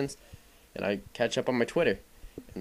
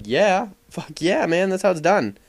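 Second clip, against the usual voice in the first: hyped cheer; 7 semitones higher, 5 dB louder, slower than usual. Retold or imitated. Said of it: "And I'm like".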